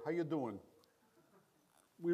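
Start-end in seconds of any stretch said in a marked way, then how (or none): 0.1-0.6 put-on light Long Island New York accent on How you doing; a friendly neighbor's Long Island greeting, How you doing; a hint of a New York accent, casual. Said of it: "the strong New York, Long Island accent that I go".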